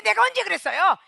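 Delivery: escalating indignant denial; whiny defensive denial. Retold or imitated. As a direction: protest innocence, 언제 pushed up high. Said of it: "이러고 변명이 나오기 시작한다".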